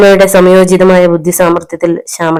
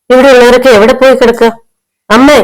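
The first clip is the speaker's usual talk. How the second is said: much higher, raised shout from the yard; loud call; 6 semitones higher, 3 dB louder than usual. A narrator's reading. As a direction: call into the house from outside. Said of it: "ഉറക്കെയുള്ള ശബ്ദം".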